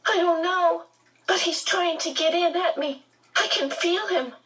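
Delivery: put-on high, frightened child voice; panicked. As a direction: keep the panic going. Charles Wallace still panicking.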